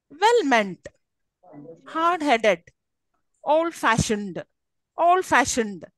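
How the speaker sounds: put-on "well-meant", "hard-headed", "old-fashioned" stressed on the second part; spaced-out compounds with second-part stress; stress on last part. Shown as a demonstration. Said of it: "on the last part".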